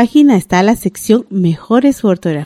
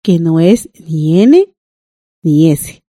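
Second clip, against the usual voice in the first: lower, slow, each letter set apart; slow emphatic rule; 4 semitones lower, slower than usual. Shown as a demonstration. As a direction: spell out the rule letter by letter, slowly. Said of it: "teacher completing the rule".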